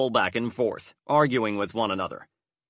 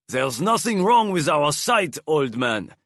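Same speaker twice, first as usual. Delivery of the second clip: higher, louder retort; guard's retort; 4 semitones higher, 3 dB louder than usual. A narrator's reading. Guard retorts to the old man, louder. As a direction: snap back, defiant.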